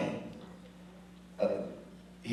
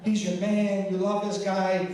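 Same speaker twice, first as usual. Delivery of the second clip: imitating his mom, higher and pushy; mock-scold like an insistent mother; nagging mom; 6 semitones higher than usual. Son imitating his mom scolding him about ticket price. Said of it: "right away she jumped on me".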